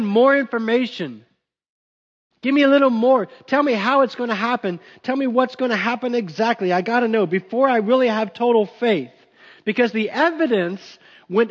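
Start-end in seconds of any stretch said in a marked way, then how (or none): 2.4-9.1 demanding proof. Retold or imitated. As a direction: push the angel for more. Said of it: "He wanted proof".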